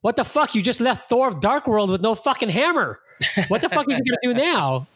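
high mock outrage with a laugh; retold disbelief. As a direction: replay your shocked reaction, cracking up. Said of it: "I was going".

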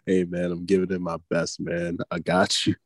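mock laid-back reassurance; Chris, nonchalant. Teammate answering a fired-up star, imitated as nonchalant. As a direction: toss it off, easy and unbothered. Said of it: "on some nonchalant ass".

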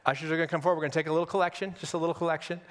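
mock pastor announcement. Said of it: "this is where I would say".

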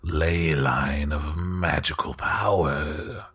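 slow, hushed aristocrat, often dropping to a whisper; a polite lord, unhurried and confiding; courtly host voice. Acted. GM holds the host's voice.

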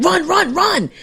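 high-pitched mock urging cry; retold urging. Host voicing neighbors helping a man escape, high urgent call. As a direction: imitate neighbors urging him to run. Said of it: "They were like".

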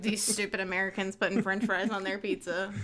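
mock Italian accent, slipping toward German or Russian; a hammed-up bad Italian accent, lightly voiced. Mocking Italians scoffing at Americans, bad Italian accent. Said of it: "That was a bad Italian accent".

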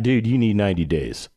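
low, emphatic retold verdict. Radio manager calls host after the show, emphatic. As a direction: imitate a colleague laying down the rule. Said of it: "he was emphatic about it".

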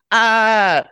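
high, drawn-out mock scream; exasperated, hammed-up "aah"; murderous "ah". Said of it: "total femme murderousness".

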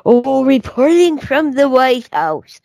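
news reporter impression. Mocking Fox News reporters standing before a screen, hammed-up anchor voice. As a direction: ham up a newscaster's sign-on. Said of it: "and they say".

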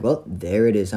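firmer, livelier echo of the clerk; pointed retort. Retold or imitated. Customer echoing the clerk's discovery, as a pointed retort. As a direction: throw the words back with emphasis.

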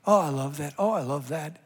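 soft, fond and doting; tender delight. Acted. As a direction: coo it like a proud parent over a newborn. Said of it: "God says about every creature".

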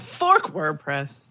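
Fork WordPress said slowly, lingering on fork; slow teasing. Shown as a demonstration. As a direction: drag out Fork WordPress playfully. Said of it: "laugh every time somebody says that".

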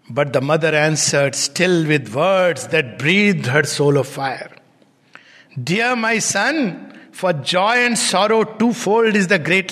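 measured recitation of epic verse; solemn poem recital; poem reading. Acted. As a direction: read it like an old ballad. Narrated verse, mother's answer.

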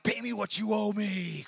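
loud, high-pitched demand held to the end; over-the-top furious shout; angry shout. Acted. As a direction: roar it like you're shaking a debtor. Acting out grabbing debtor by throat.

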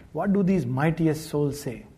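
ordinary talk, nothing marked

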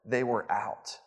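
murmured apology to a hungry guest mid-meeting; leaning-down apology. Retold or imitated. Worker leans down and quietly says they were out. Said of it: "The worker kind of leans down and says".

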